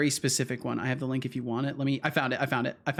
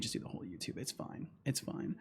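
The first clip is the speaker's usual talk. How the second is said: whispering it's fine; whispered; 15 dB quieter than usual. Real, not acted. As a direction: whisper it under your breath. Whispered under breath.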